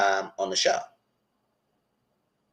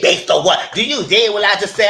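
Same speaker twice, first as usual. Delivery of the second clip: much higher, louder, laughing disbelief; incredulous quote; 10 semitones higher, 8 dB louder than usual. Retold or imitated. Repeating Angela's question, high and incredulous. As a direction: throw the question back, amazed. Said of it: "What you mean".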